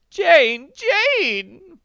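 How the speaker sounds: loud, high calling of the name; rising pleading call. A narrator's reading. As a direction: beg a friend to stop. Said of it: "Missus Potter pleaded".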